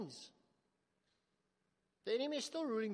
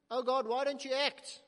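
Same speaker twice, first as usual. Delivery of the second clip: anguished cry; 4 semitones higher, 8 dB louder than usual. Acted. Crying out to God.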